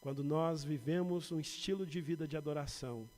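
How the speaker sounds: ordinary delivery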